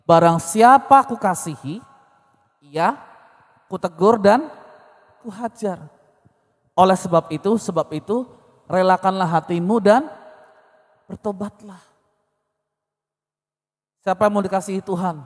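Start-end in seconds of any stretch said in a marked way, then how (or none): 0.1-11.8 loud, slow, proclaiming the verse; booming verse read out to the congregation; emphatic scripture reading. Acted. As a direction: preach each phrase with weight. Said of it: "sekali lagi".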